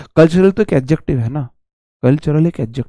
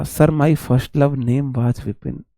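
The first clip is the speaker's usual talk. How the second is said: slow reading out; 3 semitones lower, 6 dB quieter, much slower than usual. Retold or imitated. Teacher reads student comment aloud.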